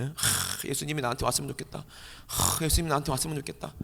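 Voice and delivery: softly sighed, half-hearted wish; wistful wishing. Acted. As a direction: sigh it out softly, too timid to be heard. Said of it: "그냥 애절한 소리 지르면 안 돼요". (작게 한숨 쉬듯 애절하게)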